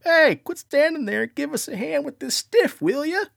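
loud, high-pitched yell; yelled order. Retold or imitated. Bluffing friend hollers at a cop for help, yelling. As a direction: call out sharply to someone across the way. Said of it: "I yelled at the cop".

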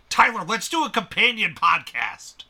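loud, eager pitch; excited. Real, not acted. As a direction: sell the idea with glee. Excitedly pitching podcast idea.

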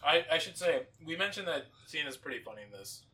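talking while chewing bread; mouth full. Real, not acted. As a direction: speak through a mouthful of bread. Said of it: "I'm eating bread while I'm saying this".

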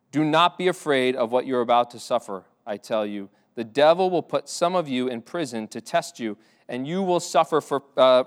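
steady solemn Bible reading; measured pulpit reading voice; scripture reading. Acted. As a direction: read the passage to the congregation. Reads the passage aloud.

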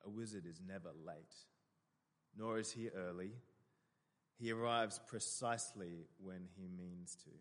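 lightly acted stern wizard; a touch of sternness, measured and restrained; reply as a mildly stern old wizard; Gandalf. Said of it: "replies with a very stern look".

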